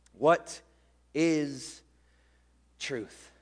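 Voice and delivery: slow, drawn-out, fading questioning; sad response. Retold or imitated. Pilate answering Jesus, sad and drawn out. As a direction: let each word hang and sink away. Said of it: "What a sad response".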